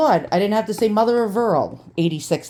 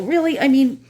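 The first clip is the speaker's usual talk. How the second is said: exasperated outburst; 6 semitones higher than usual. Real, not acted. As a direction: let the disbelief burst out. Angry at careless seller.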